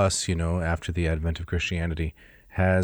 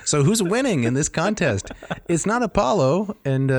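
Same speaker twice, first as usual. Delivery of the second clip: laughing while asking, high; amused laugh through the words; 9 semitones higher than usual. Real, not acted. Laughing at the story.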